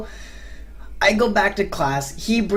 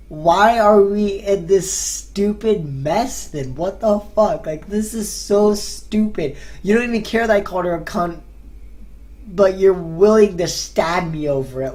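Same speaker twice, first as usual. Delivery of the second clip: raised, incredulous complaint with drawn-out stresses; exasperated outburst; 2 semitones higher, 3 dB louder than usual. Retold or imitated. Confronting the kid over the stupid mess, exasperated. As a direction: vent at the absurdity, voice pitched up.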